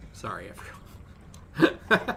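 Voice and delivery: out of breath, barely voiced; breathless apology. Real, not acted. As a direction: gasp it out, no air left. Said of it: "but I can't breathe today".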